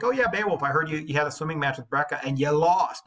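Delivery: bully teasing the hero; mocking taunt. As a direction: needle him like a schoolyard bully. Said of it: "He's like".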